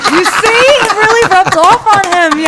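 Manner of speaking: high, laughing tease. Real, not acted. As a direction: laugh while teasing. Teasing about picked-up accent.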